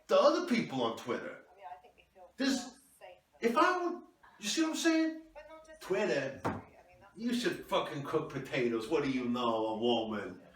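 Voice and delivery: a hammed-up husband telling off his wife; mock angry husband. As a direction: play the self-important husband snapping back. Husband ranting about Twitter.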